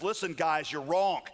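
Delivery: mildly fed-up pushback; exasperated protest, pitch climbing as it goes. Acted. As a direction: act out a worn-down man losing patience with his friends. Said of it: "Job, exasperated, says".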